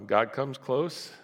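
ordinary delivery

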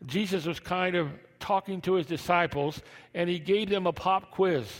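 high, loud excited preaching. Acted. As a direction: preach the scene with fire. Preaching retold scene.

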